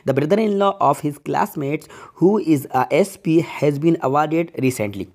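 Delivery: slow, measured classroom reading; slow sentence reading. Acted. Teacher reads the next question to students, slowly and deliberately. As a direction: read it out slowly, word by word.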